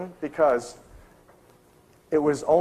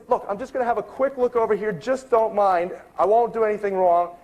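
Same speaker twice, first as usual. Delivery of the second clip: higher-pitched retold plea, slowing midway; placating insistence; 6 semitones higher than usual. Researcher reassuring the objecting librarian, placating. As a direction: imitate someone pleading to be left alone.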